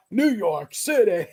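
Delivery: milk the ad catchphrase slowly for the punchline; mock cowboy ad voice. Retelling the salsa commercial to friends, slow hammed-up cowboy quote. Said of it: "try it and go".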